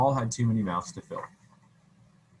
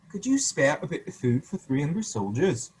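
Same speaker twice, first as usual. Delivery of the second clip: lightly voiced pleading soldier, a bit higher; 4 semitones higher, 5 dB louder than usual. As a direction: ask humbly, like a hungry soldier. Soldiers begging at doors.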